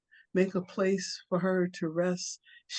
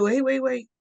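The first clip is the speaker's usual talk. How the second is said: louder and much higher squirrel protest; squirrel cutting in; 7 semitones higher, 7 dB louder than usual. Acted. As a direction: stop him short, high and loud. Squirrel stops Kim in alarm.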